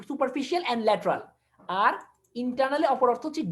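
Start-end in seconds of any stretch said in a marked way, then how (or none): 0.1-1.2 slow dictation. Shown as a demonstration. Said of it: "এক্সটার্নালি অপর word হচ্ছে".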